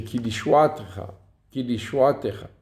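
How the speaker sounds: "Ki Lishuatecha" stressed on "a", with "te" light; stress off the tav. Shown as a demonstration. Teacher restating the example, "Lishuatecha" accented before the unstressed "te". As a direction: punch "a" in "Lishuatecha" and pass quickly over "te". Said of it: "l'accent tonique n'est pas sur le tav".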